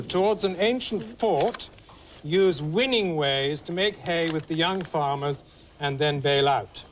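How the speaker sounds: slow, deliberate clue read; game host reading a clue. Acted. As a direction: read the riddle out slowly. Reads the clue aloud.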